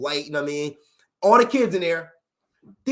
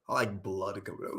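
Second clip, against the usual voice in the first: mock diner; 9 semitones lower, 12 dB quieter than usual. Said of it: "They like they food medium rare".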